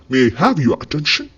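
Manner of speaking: very slow, each word laid out for learners; slow teaching demo. Shown as a demonstration. Teacher modelling an English phrase for Malayalam learners, very slow. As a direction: spell the phrase out slowly so students can copy it. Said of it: "നമ്മൾ ഇംഗ്ലീഷിൽ പറയുന്നതാണ്".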